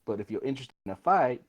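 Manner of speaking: lightly voiced, unhurried character taunt; swaggering adventurer. Player as adventurer greeting armed bandits, easygoing swagger.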